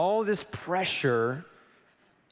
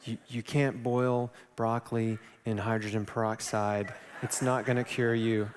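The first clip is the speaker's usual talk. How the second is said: lower, mock-serious lecturing; a hint of a condescending adviser; lecturing know-it-all; 4 semitones lower than usual. Someone warning about broccoli, lower and mock-serious.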